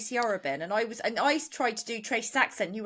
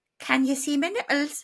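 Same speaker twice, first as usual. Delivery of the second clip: Newcastle Geordie accent; 4 semitones higher, 3 dB louder than usual. Showing the only line in an accent for a guessing game: Geordie accent. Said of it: "the only line I can do in this accent".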